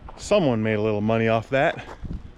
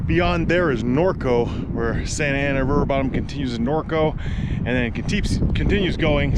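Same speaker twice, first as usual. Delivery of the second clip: dry mouth; 3 semitones higher than usual. Real, not acted. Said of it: "Sorry, my mouth is so dry from hiking".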